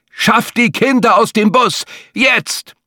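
high, pressing order to move now; urgent inner command. Acted. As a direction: drive her to act immediately. Survival instinct urging her on.

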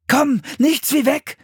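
high, insistent urging. A narrator's reading. Philipp urging his sister to flee, insistent. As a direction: press them to get moving. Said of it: "drängte Philipp".

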